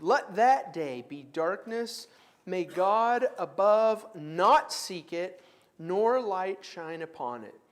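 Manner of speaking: slow, deliberate reading of Job; a slow scripture reading in class. Acted. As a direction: read the curse slowly and gravely. Reads Job aloud.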